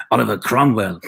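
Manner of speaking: grand British film-actor delivery; mock British accent. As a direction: put on a British accent for a period epic. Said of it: "a British accent".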